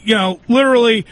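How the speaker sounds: ordinary talk, nothing marked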